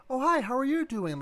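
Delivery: put-on high, bright girl voice demo; man doing a woman's voice. Shown as a demonstration. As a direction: pitch up into a girl voice. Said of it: "my attempts at girl voice".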